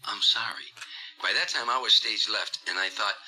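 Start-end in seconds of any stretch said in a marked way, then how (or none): 0.0-0.7 whispered apology into the mic; whispering. Retold or imitated. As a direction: hush it like a lost singer. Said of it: "And now he's whispering".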